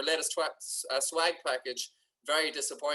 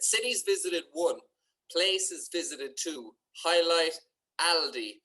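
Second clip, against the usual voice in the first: mock announcement; 4 dB louder, slower than usual. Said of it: "It said".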